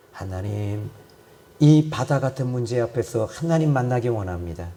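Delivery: low, subdued pastoral prayer; closing prayer. Real, not acted. Pastor addressing God the Father for the congregation, subdued prayer.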